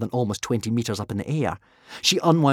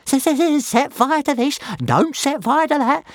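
high, louder whiny dragon; complaining; 5 dB louder than usual. A narrator's reading. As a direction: whine it back at the boss. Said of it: "complained Toothless".

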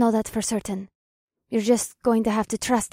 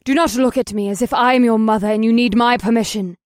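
scolding; 6 dB louder than usual. Acted. Siren scolds the women.

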